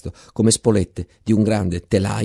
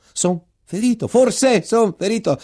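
anxious inner thought; 9 semitones higher than usual. Acted.

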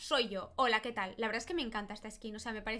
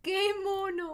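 high, adoring coo; gushing coo; 6 semitones higher, slower than usual. Real, not acted. Player looks at tiny baby hats, cooing. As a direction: coo as if melting at cuteness.

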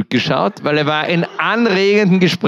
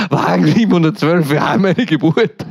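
mock radio call. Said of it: "Und er".

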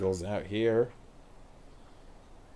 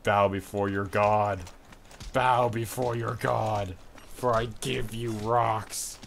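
booming echoing villain monologue; 5 dB louder than usual. Acted. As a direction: proclaim like a vengeful god. Mock god throwing rocks.

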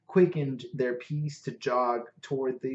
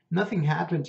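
puzzled; 4 semitones higher, 4 dB louder, faster than usual. Acted. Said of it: "puzzled by my irritation".

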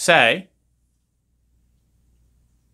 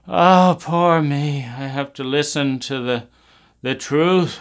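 sarcastic self-pity. Acted. Sarcastic parent mockery.

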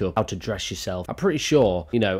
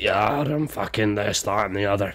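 lightly voiced mockery. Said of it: "She sounds like this".

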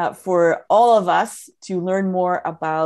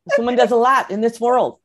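excited; 4 semitones higher, 5 dB louder than usual. Real, not acted. Admiring remark after long bio.

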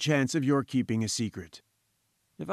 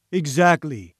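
a louder, hammed-up Exactly of mock surprise; exaggerated surprise; 4 dB louder, slower than usual. Professor mocking the reporter with hammed-up surprise. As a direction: praise it like a clever infant's trick. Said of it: "with an air of exaggerated surprise".

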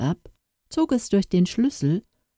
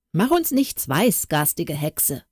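angry shout. Acted. Kitchen boy chasing off the ugly girl, mild scornful shout. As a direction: jeer at the supposed witch. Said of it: "rief der Küchenjunge".

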